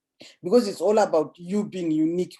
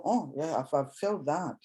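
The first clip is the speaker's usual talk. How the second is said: audience reply; 5 dB quieter than usual. Retold or imitated. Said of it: "And people go".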